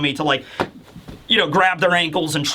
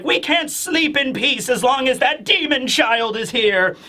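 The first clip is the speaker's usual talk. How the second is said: higher-pitched retold complaint of a townswoman; fearful complaint; 6 semitones higher than usual. Mother to her child about the demon child, mock complaint. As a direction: voice an upset mother's grievance.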